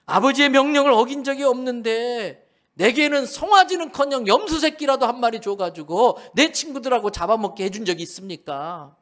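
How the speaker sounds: the wronged son demanding fairness; bitter reproach. Acted. Elder son's bitter reproach. (억울한 큰아들이 아버지께 큰 소리로 따지는 말투)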